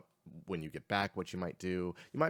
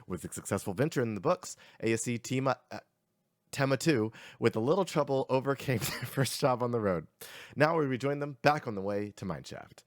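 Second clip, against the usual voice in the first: energetic recap read, slightly lifted; lively game master's intro; recap narration; 4 semitones higher, 4 dB louder than usual. Acted. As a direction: deliver the previously-on summary with punch. Reads the session recap.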